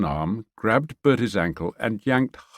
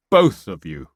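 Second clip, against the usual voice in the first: loud command to both fighters; yell; 5 dB louder than usual. Acted. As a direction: order them apart. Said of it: "he yelled again".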